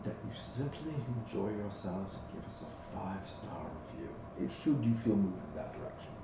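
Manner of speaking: lightly voiced courteous waiter; polite waiter. GM as maitre d' serving the party, lightly courteous waiter. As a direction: offer the espresso like a smooth attendant.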